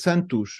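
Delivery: "Santush" with a final sh sound; Portuguese "Santush", final s as sh; Portuguese Santos. Shown as a demonstration. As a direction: say "Santush", ending on sh. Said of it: "like O S and Santush".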